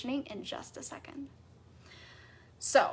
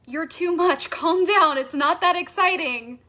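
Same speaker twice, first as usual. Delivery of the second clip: dismissive scolding; 3 semitones higher, 6 dB louder than usual. Acted. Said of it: "How often have you been told".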